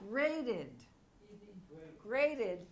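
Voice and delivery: "grated" with the E pronounced; two-syllable pronunciation. Shown as a demonstration. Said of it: "we pronounce this E".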